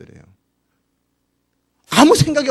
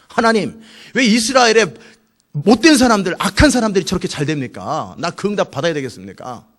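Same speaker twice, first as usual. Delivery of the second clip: wrestling with God; 3 semitones higher, 5 dB louder than usual. Acted. Habakkuk demanding God's answer about evil people, confronting. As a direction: protest urgently, hitting the first words hard. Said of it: "하나님 앞에 막 씨름을 하고".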